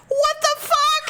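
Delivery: high, laughing disbelief; shocked laughing. Retold or imitated. Quoting Greg after the woman leaves, shocked. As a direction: blurt it out stunned. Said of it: "he's like".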